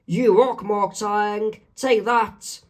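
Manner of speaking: upbeat cartoon exclamation; excited and pleased. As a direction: cheer a friend on. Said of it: "is excited and pleased".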